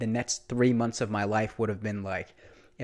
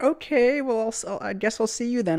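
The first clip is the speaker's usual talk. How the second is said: much higher, girly mock voice; imitating the waitress; 11 semitones higher than usual. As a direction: mimic her disappointed goodbye, high pitched. Waitress voiced after his brush-off.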